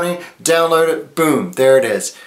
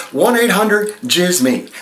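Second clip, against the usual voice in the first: slow number read; 4 semitones higher than usual. Acted. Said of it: "call that number".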